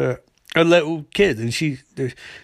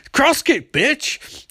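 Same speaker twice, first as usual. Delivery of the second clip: mock battle cry; 11 semitones higher, much slower than usual. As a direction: yell it as you land the kick. Shapeshifter shouts during fight.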